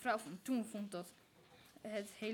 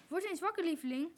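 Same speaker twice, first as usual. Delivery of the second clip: higher-pitched wake-up call; 6 semitones higher, 3 dB louder, faster than usual. A narrator's reading. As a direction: call out to rouse a sleeper. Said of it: "riep mevrouw van Toen".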